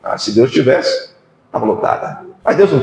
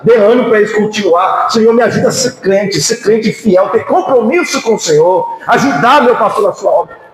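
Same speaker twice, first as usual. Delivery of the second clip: model prayer; 4 semitones higher than usual. Shown as a demonstration. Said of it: "dobrar o seu joelho e falar".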